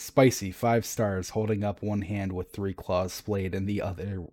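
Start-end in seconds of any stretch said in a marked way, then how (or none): 0.0-1.3 slow stilted order. Retold or imitated. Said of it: "the Eliksni says".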